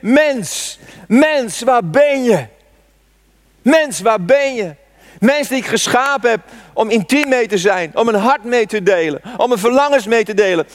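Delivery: hoger, smekend roepend Mens, mens; God die uitroept. Acted. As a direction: roep het uit als een God die zijn mens zoekt. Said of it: "Ik denk dat God geschreeuwd heeft". (hoge, smekende uitroep van God)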